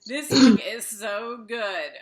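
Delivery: loud, slow and emphatic; gushing praise. Real, not acted. Interviewer to author about her book, loud slow gush. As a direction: lean hard into the praise, drawn out.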